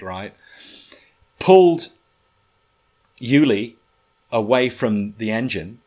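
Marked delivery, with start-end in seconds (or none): 1.4-5.8 much higher and louder, urgent; high-stakes storytelling rush; excited. Real, not acted. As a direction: tell it breathless and urgent. Frantic rescue scene retold.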